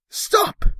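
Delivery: sharp high shout; yell. Acted. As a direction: shout Stop! to break up a fight. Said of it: "yelled the girl".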